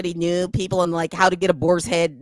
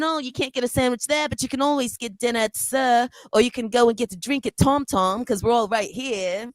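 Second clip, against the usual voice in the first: a mock upper-class British accent, lifted higher; Vanderpump British accent; 5 semitones higher than usual. Cohost imitating Lisa Vanderpump to the group, British accent. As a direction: put on a put-on British accent, slowing at the end. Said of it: "That was my Vanderpump accent".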